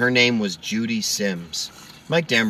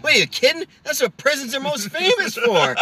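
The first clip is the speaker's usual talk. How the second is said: Norm Macdonald voice. Retold or imitated. Comic telling a prison scene to his co-host, Norm-style incredulous line. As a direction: play it as a deadpan incredulous con. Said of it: "I could hear Norm say that".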